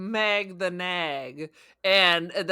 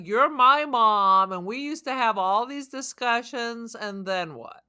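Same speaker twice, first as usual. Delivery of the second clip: jealous robot quote. Retold or imitated. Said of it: "it was like she was jealous".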